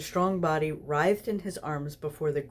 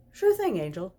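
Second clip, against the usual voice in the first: amiable agreement; 3 semitones higher, 3 dB louder than usual. Acted. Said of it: "Crowley agreed amiably".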